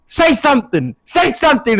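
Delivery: high-pitched mock screaming; retold scream. Pinning friend in a chicken wing, screaming in play. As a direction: yell it as a taunting demand. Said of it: "I scream at him".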